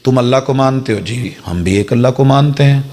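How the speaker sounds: a hint of sugary, soothing persuasion; mock sweet persuasion. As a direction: lightly play the honeyed recruiter. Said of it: "بڑے محبت سے کہیں گے".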